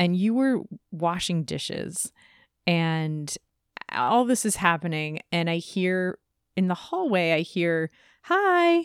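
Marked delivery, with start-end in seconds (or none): 8.2-8.8 woman's voice pitched way up. Retelling hearing a voice in the hallway: imitating a woman's voice saying hi. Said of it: "like that, like a, a woman's voice".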